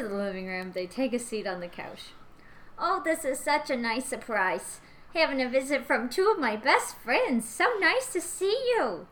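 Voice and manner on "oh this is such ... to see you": put-on a sweet chatty old woman; old lady voice. Plays Georgina.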